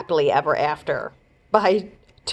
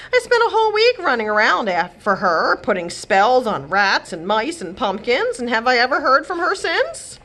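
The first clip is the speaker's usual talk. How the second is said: much higher, louder rant; 5 semitones higher, 3 dB louder than usual. Acted. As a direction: complain about Cinderella, higher and louder. Godmother rants.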